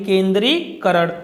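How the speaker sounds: केंद्रीकरण said slowly with no य, "ken-dree-karan"; correct form. Shown as a demonstration. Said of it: "इसमें य नहीं आता है". (शुद्ध रूप केंद्रीकरण, बिना य के)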